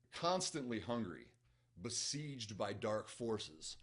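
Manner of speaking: slow, measured trailer-like reading; deliberate, portentous book-jacket delivery; blurb narration. A narrator's reading. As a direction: read it with dramatic pauses. Reads back cover aloud.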